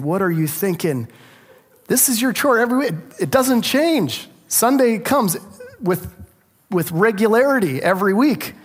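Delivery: a father fed up with garbage cans left at the house; exasperated dad scolding. Retold or imitated. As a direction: scold the boys, half laughing at yourself. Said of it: "I feel frustrated".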